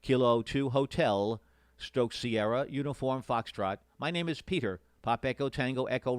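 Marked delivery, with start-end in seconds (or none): 0.0-3.8 slow, over-enunciated call sign; slowly. Shown as a demonstration. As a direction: spell each word out slowly. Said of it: "I say it slowly".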